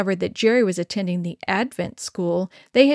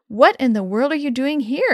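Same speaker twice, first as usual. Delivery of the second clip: exclaiming; 4 semitones higher, 4 dB louder than usual. Acted. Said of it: "exclaimed Dad".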